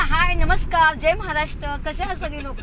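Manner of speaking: cheery greeting demo. Shown as a demonstration. Showing her shy brother how to greet viewers, cheery. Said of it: "असं बोलायचं ना".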